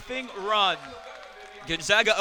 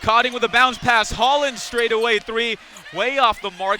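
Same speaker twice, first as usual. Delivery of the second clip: louder live play-by-play; excited shot call; 7 dB louder than usual. Real, not acted. Commentator calls Holland's straightaway three, excitedly. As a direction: push the voice as the shot flies.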